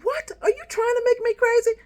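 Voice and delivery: high, loud disbelieving retort; retold incredulous yell at her mother; shocked outburst. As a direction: fire it back, high and loud, stunned.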